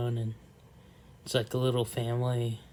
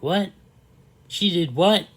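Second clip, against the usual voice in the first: high, loud shocked "What? She did what?"; friend's high surprised voice; 7 semitones higher, 9 dB louder than usual. Retold or imitated. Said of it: "that's not really how she talks".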